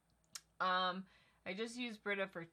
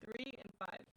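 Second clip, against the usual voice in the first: robot voice; 5 semitones higher, 5 dB quieter than usual. Pretend. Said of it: "Sorry, the robot voice".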